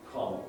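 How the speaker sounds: Con on its own as the stressed syllable; stressed first syllable. Shown as a demonstration. Teacher isolating the noun's first syllable, Con fully stressed. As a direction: isolate Con, the full-vowel start of the noun. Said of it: "the noun contract".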